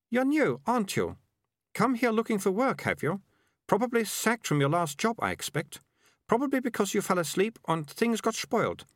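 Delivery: put-on high-pitched girl firing off guesses; high, confronting girl character; nosy girl. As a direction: interrogate the newcomer in a high girl's voice.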